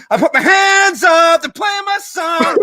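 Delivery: put-on high, loud drunken bar singalong shout. To his friends at the bar, drunken high shout. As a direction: belt it out like a tipsy fan with hands up. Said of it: "and then you're like".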